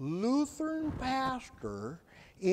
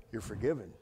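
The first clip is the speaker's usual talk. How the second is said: a hint of a gentle voice; 12 semitones lower, 9 dB quieter, faster than usual. Voice of God forgiving.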